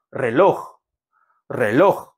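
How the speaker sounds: "렐로흐" with the last syllable 로흐 stressed; stress on final syllable. Shown as a demonstration. Teacher shows class how to say clock, "렐로흐" stressed on its last syllable. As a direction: punch the end of "렐로흐". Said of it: "맨 마지막 음절에 강세가 있으므로".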